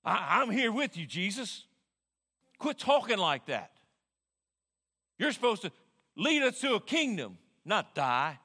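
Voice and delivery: a hint of a brash fisherman scolding; chest-out Peter. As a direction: puff up and scold like a big fisherman. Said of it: "bold his chest out".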